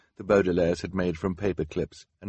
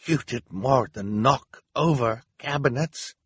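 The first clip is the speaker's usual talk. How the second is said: accusing Hal; 6 semitones higher than usual. A narrator's reading.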